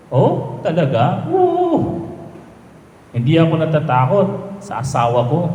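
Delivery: lightly voiced skeptical drinking buddy; a hint of a teasing drinking pal. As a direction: raise the pitch and play the doubting friend. Second buddy in joke.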